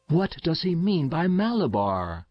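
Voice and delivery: high-pitched anxious question; heart-frozen. A narrator's reading. Frightened mother asks about her delirious son's words, heart-frozen. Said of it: "asked the heart-frozen mother".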